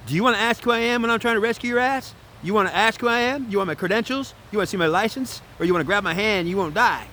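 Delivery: high, incredulous string of questions; indignant rescuer. Acted. Rescuer to Aries who asks who they are, indignant. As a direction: demand it as if you can't believe the hesitation.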